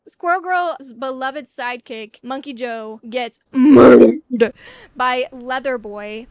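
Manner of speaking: loud, slow drawn-out reveal; dramatic announcement. Real, not acted. Vlogger revealing sidekick's death, loud and slow. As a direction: boom out the murder slowly.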